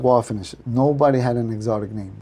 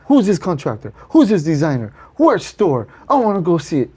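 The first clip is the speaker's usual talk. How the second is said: higher, mildly indignant questioning; mad, retold; 4 semitones higher than usual. Friend demands details of his job, mildly mad. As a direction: fire off questions as an annoyed rival. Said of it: "So mad at me".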